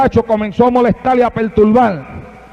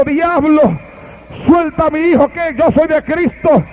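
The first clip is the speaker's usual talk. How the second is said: put-on old man shouting; 4 semitones higher than usual. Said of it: "aquel anciano en el cuarto gritando".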